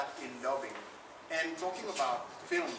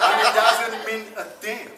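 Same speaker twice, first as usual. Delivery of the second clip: much louder and higher, through laughter; laughing; 6 semitones higher, 14 dB louder than usual. Real, not acted. Actor laughing that French dubbing means nothing. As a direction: laugh the point out with scorn.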